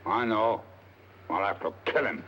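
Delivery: put-on lightly accented Lascar sailor; murderous Lascar. Disguised detective questioning tavern drinkers, lightly voiced Lascar. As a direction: speak in a guarded, put-on Lascar voice. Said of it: "in the character of a murderous Lascar".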